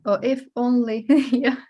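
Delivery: amused if-only, breaking into a laugh; laughing regret. Acted. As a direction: toss in a mock lament and laugh. Adds a playful regretful phrase, laughing.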